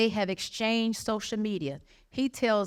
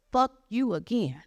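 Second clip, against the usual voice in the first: whispered curse; 2 semitones higher than usual. Retold or imitated. Drunk man's retort.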